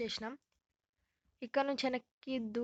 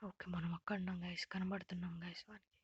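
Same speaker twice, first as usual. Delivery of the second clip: hushed whisper; whisper, he can see us; whispering while hiding; 3 semitones lower, 5 dB quieter than usual. Real, not acted. Whisper, seeker close.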